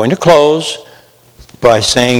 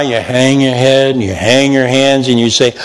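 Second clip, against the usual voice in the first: ordinary talk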